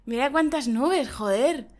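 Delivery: half-hearted mock amazement; host failing to copy the surprised tone; flat imitation of surprise. Shown as a demonstration. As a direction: try the line, it falls flat. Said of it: "a mí no me sale igual que a ti".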